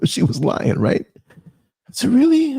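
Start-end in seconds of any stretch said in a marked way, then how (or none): 2.1-2.6 much higher, drawn-out doubtful really; mock incredulous really; skeptical really. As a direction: let the doubt ring out in one word. Doubting her claimed origin.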